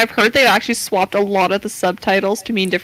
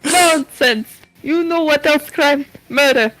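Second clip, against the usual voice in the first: put-on Russian accent; 4 semitones higher, slower than usual. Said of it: "I keep turning Russian".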